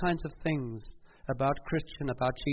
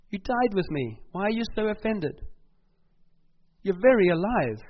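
higher, louder voice of God scolding the church; a firm divine rebuke, raised and pressing; God rebuking; 4 semitones higher, 4 dB louder than usual. Retold or imitated. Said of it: "And he's gonna say".

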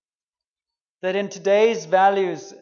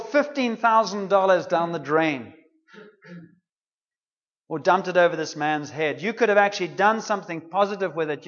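acting out a mildly indignant telling-off; imitated scolding with emphatic outbursts; indignant rebuke. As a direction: berate her, a touch heated. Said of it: "were saying indignantly to one another, and they rebuked her harshly".

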